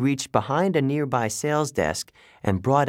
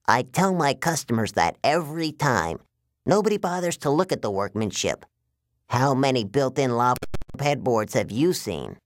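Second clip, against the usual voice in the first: higher, aggrieved salesman giant; giant waterbed salesman villain; 3 semitones higher than usual. Acted. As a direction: boast like a salesman nobody appreciates.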